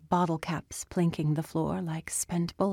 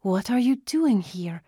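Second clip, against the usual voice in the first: strained voice; 4 semitones higher, 4 dB louder than usual. Acted. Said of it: "Tina's voice strained".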